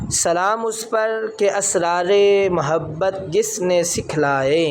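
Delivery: slow, measured reciting of a devotional couplet; naat recitation. Acted. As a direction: recite the verse slowly and reverently. (نعتیہ شعر دھیمے اور ٹھہر ٹھہر کر پڑھیں)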